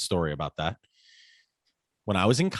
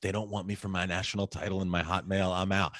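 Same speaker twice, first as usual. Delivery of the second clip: indignant; 3 semitones lower, 6 dB quieter than usual. Retold or imitated. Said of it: "this is, like, indignant".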